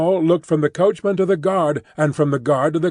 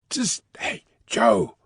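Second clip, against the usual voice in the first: warning voice; 4 semitones lower, slower than usual. Acted. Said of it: "called the coachman in a warning voice".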